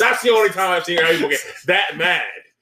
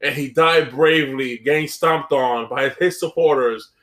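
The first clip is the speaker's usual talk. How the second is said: mock eulogy; 6 semitones lower than usual. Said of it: "make eulogy ... be like".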